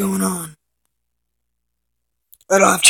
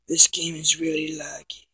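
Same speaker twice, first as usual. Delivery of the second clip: whispering; 6 dB quieter than usual. Real, not acted. Complains under his breath about lag.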